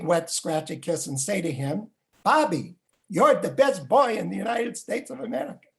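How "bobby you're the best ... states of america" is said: put-on higher-pitched Russian-accented grandfather. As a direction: proclaim it as a proud Russian grandpa. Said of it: "say to me in his Russian accent".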